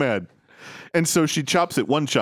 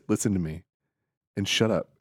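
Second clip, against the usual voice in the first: low, quieter bossy husband voice; gruff mock husband; 7 semitones lower, 4 dB quieter than usual. Murphy ordering his wife to shut up, low and gruff. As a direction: growl it down at her.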